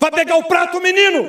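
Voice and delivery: shrill, furious, loud, high-pitched angry yell. Speaker demonstrating how parents yell at their child: yelling at a child. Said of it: "Se você grita com seu filho".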